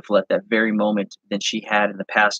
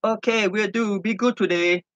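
light, much higher cashier voice; Ling's voice; 11 semitones higher, 3 dB quieter than usual. Acted. Ling saying her daily goodbye to Zenda, high and cheerful. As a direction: send him off kindly in broken English. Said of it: "She told me the same thing every morning".

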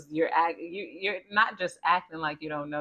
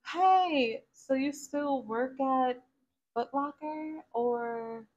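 high, sugary put-on voice of a fake friend; fake friendly acquaintance; 9 semitones higher than usual. Nosy acquaintance fishing for gossip, high fake-sweet voice. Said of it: "They're gonna be like".

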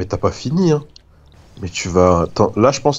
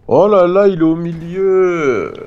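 surprised; 8 semitones higher, 3 dB louder, slower than usual. Real, not acted. Surprise at the other player.

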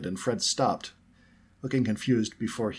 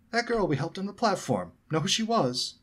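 excited; 11 semitones higher than usual. A narrator's reading. Fred excited.

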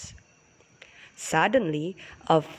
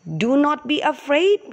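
pleading; 6 semitones higher than usual. Acted. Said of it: "pleaded the peach tree".

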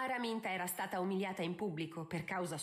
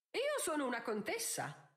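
higher, mildly haughty retort; hissed retort; 6 semitones higher than usual. A narrator's reading. Countess answering a social threat, hissing. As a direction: assert your rank with restrained anger. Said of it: "sibilò lei".

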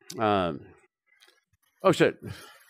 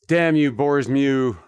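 mock curse; much slower than usual. Cursing a game enemy.

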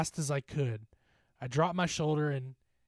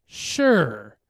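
eerie voice; 15 dB louder than usual. Acted. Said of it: "an unfamiliar voice said".

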